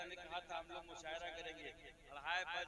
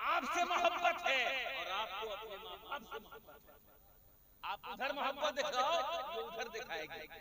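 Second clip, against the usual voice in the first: higher and louder, laughing through it; laughing exhortation; 8 semitones higher, 10 dB louder than usual. Real, not acted. Preacher laughingly telling husbands to show love. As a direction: urge them on with a laugh.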